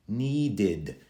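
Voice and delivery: NEEDED in two syllables, need-id; extra id ending. Shown as a demonstration. Teacher pointing out the extra sound, id ending. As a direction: make the id in NEEDED clearly heard. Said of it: "Hear the extra id at the end".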